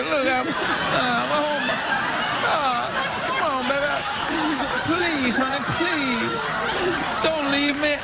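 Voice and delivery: mock pleading. Begging girlfriend not to leave.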